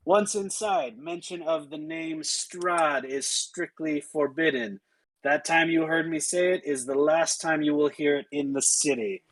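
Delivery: guard's rote official spiel; mildly deadpan city-gate speech. Acted. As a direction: recite the rules with little excitement. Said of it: "she is totally deadpan".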